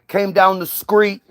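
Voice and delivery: a hint of mock street slang, rising on "dog"; stereotyped slang voice. Mocking how nobody in the hood really talked, lightly voiced. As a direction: lightly play a slangy guy from the block. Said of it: "Nobody's talking about".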